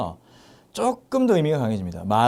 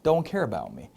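slow model sentence; much slower than usual. Shown as a demonstration. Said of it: "이렇게 될 수 있겠습니다".

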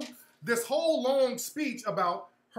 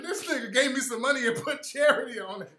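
laughing quote. Retold or imitated. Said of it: "She said".

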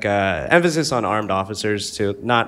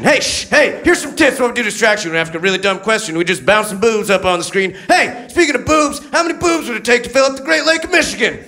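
monster truck ad; 11 semitones higher, 3 dB louder than usual. Retold or imitated. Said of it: "that guy who does monster truck ads".

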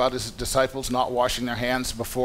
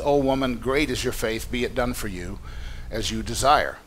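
sincere; 3 semitones lower than usual. Acted. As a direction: grant it gently, dropping low. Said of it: "as if he was speaking exactly what he meant".

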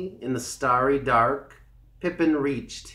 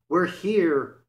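high, louder excited shout; excited cry; 6 semitones higher, 4 dB louder, slower than usual. A narrator's reading. Johnny Town Mouse cries out to Pippin on arrival, excited. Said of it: "cried Johnny Town Mouse".

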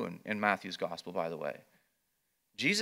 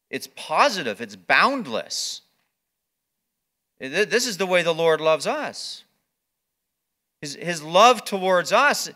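rising, louder preacher's build; preaching at full force; 6 semitones higher, 8 dB louder than usual. Acted. Pastor urging the congregation on, preaching louder. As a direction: press it home from the pulpit, louder.

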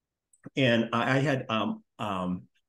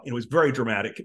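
mock dramatic. Real, not acted. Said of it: "Maybe I'm making it a little bit too dramatic".

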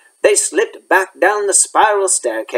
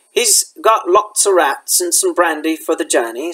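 muffled. Acted. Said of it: "said Hagrid in a muffled voice".

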